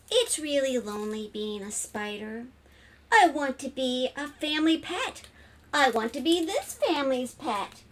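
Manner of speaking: a hint of a hopeful little spider; storybook spider longing to be a pet; lightly voiced lonely spider, wistful. Spider wishing for a family, lightly voiced longing.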